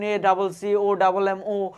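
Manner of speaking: slow spelling, each letter apart; letter by letter, slowly. Shown as a demonstration. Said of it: "চোখ বন্ধ করে তুমি পড়লা".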